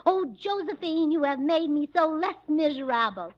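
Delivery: mock-tragic cry of a wronged husband; a hint of Napoleon in a towering rage. Shown as a demonstration. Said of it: "He flies into a towering rage and cries".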